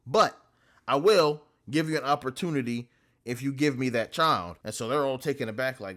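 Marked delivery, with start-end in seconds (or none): 0.1-4.6 loud, commanding cosmic demand; Galactus demanding. Retold or imitated. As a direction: boom out the demand for the child.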